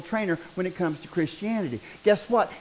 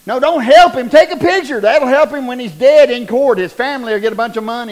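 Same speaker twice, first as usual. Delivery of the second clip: mock outrage; 3 semitones higher, 10 dB louder than usual. Real, not acted. Preacher mocking phone-filming bystanders.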